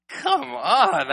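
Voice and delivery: sudden high excited call; excited outburst. Real, not acted. Preacher urging the congregation, excited and high. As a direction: rouse the room with delight.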